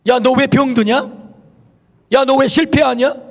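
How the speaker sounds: imitating scoffers' taunting questions; retold jeering, each question lifting at the end; mocking. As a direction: needle a believer with rising mock questions. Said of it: "라고 조롱합니다".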